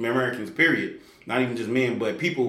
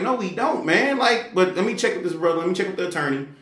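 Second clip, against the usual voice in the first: 1 incredulous refusal; 7 semitones higher than usual. Retold or imitated. Refusing homeboy again.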